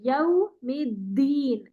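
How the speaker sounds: slow, drawn-out Arabic recitation of یوم الدین; slow tajweed recitation. Shown as a demonstration. Teacher models recitation for student, slowly. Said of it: "یوم الدین ایسے نہیں کرنا".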